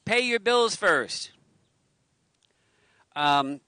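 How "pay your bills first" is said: laughing. Real, not acted. Laughing about water bill.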